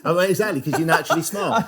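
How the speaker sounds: talking round a pen held in the mouth; pen in teeth. Real, not acted. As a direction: speak with a pen clamped sideways in the teeth. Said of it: "I've put a pen in my mouth".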